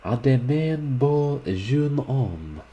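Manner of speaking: high, loud, drawn-out call; laughing model's loud goodbye, without the laugh; cried farewell. A narrator's reading. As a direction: call it out slowly and playfully, pitched high. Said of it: "kissed her hand to him and cried".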